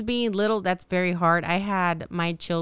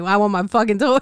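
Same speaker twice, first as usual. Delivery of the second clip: put-on louder, sulky demand of a spoiled kid; mock child tantrum; 7 dB louder than usual. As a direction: stomp it out like a furious little girl. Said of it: "being pissed off and be like".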